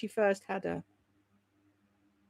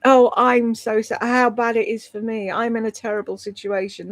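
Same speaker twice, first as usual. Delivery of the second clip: mock self-pity. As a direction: ham up her fishing for sympathy. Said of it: "That's what she does".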